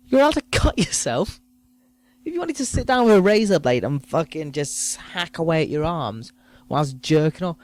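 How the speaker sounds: normal talking voice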